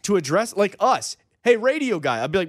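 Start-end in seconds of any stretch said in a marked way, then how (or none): 1.4-2.2 higher-pitched hail; light holler, not full volume; mock calling out. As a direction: call to someone for attention. Acting a stranger calling out.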